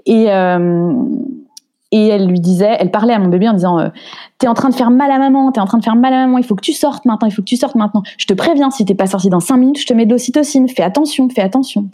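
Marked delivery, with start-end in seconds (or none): 4.4-11.9 put-on midwife scolding the baby, pitched up; hammed-up threat to the newborn; mock stern midwife. Midwife scolds the baby to push it out, mock stern. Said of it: "le sketch".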